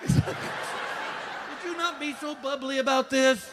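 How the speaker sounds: hammed-up irritation; annoyed. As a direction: ask her to tone it down. Annoyed reply to bubbly nurse.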